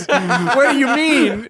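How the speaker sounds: high, slow, laughing mock bafflement; clueless friend. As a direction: play the friend as totally lost, cracking up. Mocking the friend's confused reply.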